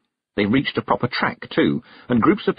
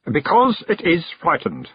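eerie memory voice; 8 semitones higher than usual. Acted. The hiver memory speaks.

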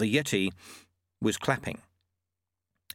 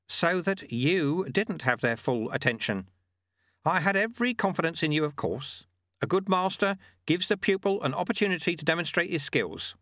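put-on raised, calm old sweeper; old monk voice; 7 semitones higher than usual. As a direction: voice the sly old monk lightly. Narrator voices Lutze.

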